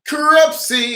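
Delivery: high, drawn-out name call; excited winner announcement. Real, not acted. Presenter reveals the quiz winner to the little sippers, excited.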